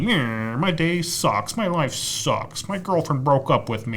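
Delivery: slow, high, sulky whine; mock whiny moping. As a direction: drag it out like a self-pitying emo kid. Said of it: "the whiny".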